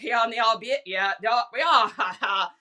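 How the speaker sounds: garbled Vermont drawl ending in a chuckle; imitated Vermont drawl. Wife mimicking husband's uncle chatting, garbled Vermont drawl. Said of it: "this is how he talks".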